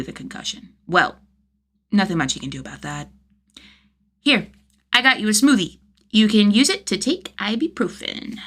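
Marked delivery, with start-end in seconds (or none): 4.2-8.4 put-on helpful kid. Child offering help.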